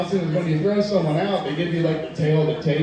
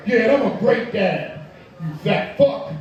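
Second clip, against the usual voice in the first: imitating a tearful, wounded dad; hammed-up emotional protest; mock crying. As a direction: whine it out as if in tears. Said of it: "He starts crying".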